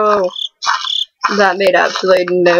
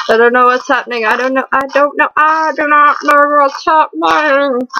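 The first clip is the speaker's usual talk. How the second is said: weird put-on voice; 5 semitones higher than usual. Gamer voices Slendy's panic in a weird voice. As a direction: pretend to panic in a silly voice. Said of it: "That was a really weird voice".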